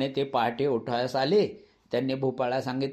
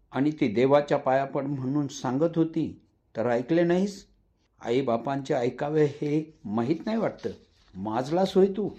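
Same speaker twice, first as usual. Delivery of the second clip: angry father. Acted. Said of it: "वडिलांचा राग व आवाज वाढत होता".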